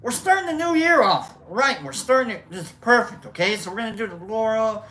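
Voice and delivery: quiet high fast instructor; soft high coach voice. Acted. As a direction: teach it in a hushed squeaky voice.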